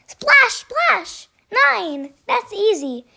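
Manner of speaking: high and loud, splashing and showing off; gleeful shout. A narrator's reading. Duckling shouting while kicking puddle water at Goose. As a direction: shout it like a game you're winning. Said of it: "Thistle shouted".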